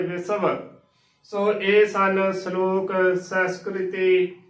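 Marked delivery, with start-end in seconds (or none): 0.0-0.6 ਵਿਸਵ as "be-sa-va" with a full v; ਵਿਸਵ with every syllable sounded; correct pronunciation. Shown as a demonstration. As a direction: keep the last ਵ of ਵਿਸਵ a consonant. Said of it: "ਇਸ ਦਾ ਉਚਾਰਨ".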